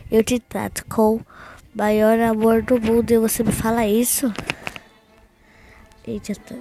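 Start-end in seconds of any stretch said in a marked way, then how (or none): 0.1-4.3 indignant quote. Retold or imitated. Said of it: "ai, gente, ela falou".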